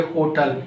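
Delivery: "Hotel" as HO-tul; wrong HOTEL. Shown as a demonstration. Teacher quizzing learners on "Hotel", said as HO-tul. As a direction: say "Hotel" with stress up front, weak ending. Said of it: "every single person mispronounce this word".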